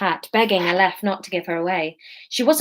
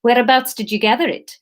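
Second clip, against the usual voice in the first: a hint of South African; lightly voiced South African customer; light South African accent; 3 semitones higher, 3 dB louder than usual. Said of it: "we can do Aleph as South African".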